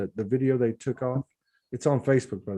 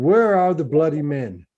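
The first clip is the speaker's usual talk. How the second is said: louder mock-Australian quote; lightly put-on Australian accent, forceful; attempted Australian accent; 5 dB louder than usual. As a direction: imitate an Aussie man, punching it out. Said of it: "in his accent".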